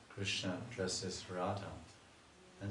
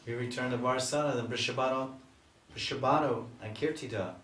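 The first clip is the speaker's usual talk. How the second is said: raised, fast, anxious gopi voices; worried gopis; 3 semitones higher, 4 dB louder than usual. Retold or imitated. Gopis worrying about facing Radharani's parents, raised and anxious. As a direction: fret together as worried girls. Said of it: "the gopis start talking".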